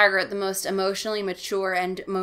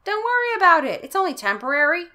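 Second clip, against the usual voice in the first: dad voice; 9 semitones higher, 6 dB louder, faster than usual. Acted. Dad brushes it off.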